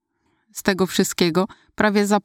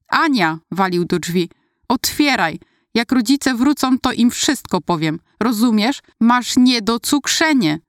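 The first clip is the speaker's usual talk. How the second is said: high, urgent yelling; yelling through door; 4 semitones higher than usual. Acted. Brother banging on bathroom door, yelling. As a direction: shout through the locked door. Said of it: "Dar się".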